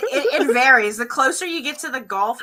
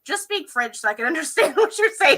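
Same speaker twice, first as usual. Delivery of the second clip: Deepwater Cajun impression. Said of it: "it's like".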